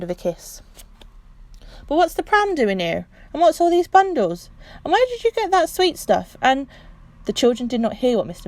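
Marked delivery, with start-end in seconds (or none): 1.9-6.7 high, rising puzzled questions. Acted. Husband finding the gifts, high and puzzled. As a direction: demand to know what all this is. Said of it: "husband's puzzled questions".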